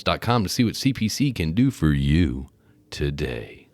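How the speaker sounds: smooth promo announcer read; podcast announcer voice. Acted. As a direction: read it like a movie trailer host. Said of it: "movie, uh, preview announcer voice right there".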